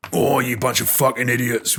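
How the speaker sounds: lightly done Cockney accent, a hint of gruff Butcher; mock Cockney swearing at idiots, only lightly put on. Retelling Butcher's line in a mild Cockney accent. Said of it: "in his brilliant Cockney accent".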